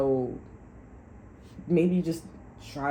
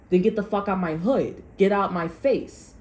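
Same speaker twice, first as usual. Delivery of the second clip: louder, higher "get out my face", slowing down; angry telling-off; 4 semitones higher, 5 dB louder than usual. Acted. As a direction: push him out of your hood. Acted confrontation, telling him off.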